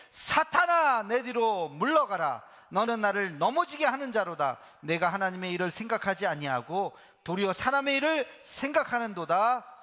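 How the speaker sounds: loud, commanding rebuke; stern rebuke. Acted. Jesus sternly rebuking Peter, loud command. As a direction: thunder it down at Satan.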